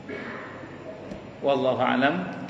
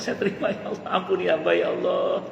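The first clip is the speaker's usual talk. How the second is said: laughing mock prayer; 3 semitones higher, 3 dB quieter than usual.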